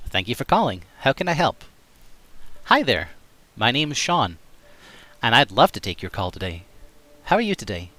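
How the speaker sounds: friendly generic American call center voice; call center agent. Shown as a demonstration. Streamer plays call center agent in American accent. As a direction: answer the phone like a cheery agent. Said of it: "Sort of okay".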